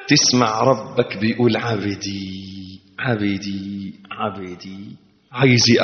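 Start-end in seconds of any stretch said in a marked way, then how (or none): 1.6-4.8 very soft, low repeated call; faint tender murmur; whispered call. Acted. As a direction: breathe it tenderly. God calling softly.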